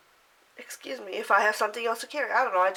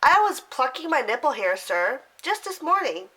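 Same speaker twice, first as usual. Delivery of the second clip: casual; 3 semitones higher than usual. Retold or imitated. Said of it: "I looked at him so casually".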